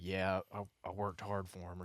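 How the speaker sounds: imitating a low-volume grumble to himself; under his breath. Club member's comment after the buck was shot, under his breath. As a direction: say it softly, as if barely meant to be heard. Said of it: "said something under his breath".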